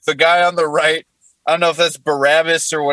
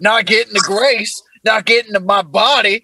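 put-on Jesus, southern accent. Comic voicing Jesus complaining on the cross, southern accent. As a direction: run it together like a southern good old boy. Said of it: "What Jesus said on the cross in a southern accent".

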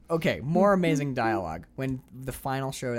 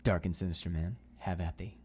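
lower, hammed-up fairy tale villain; stagey fake archaic declaiming; 6 semitones lower than usual. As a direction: declaim it like stilted stage dialogue. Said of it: "like stilted, silly fairy tale dialogue".

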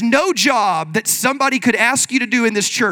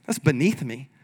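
a quiet, lowered sniff of disdain; snooty refusal; 8 semitones lower, 6 dB quieter than usual. Retold or imitated. Churchgoer turning up their nose at a chore, quiet and snooty. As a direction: say it like the chore is below you. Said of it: "and be like".

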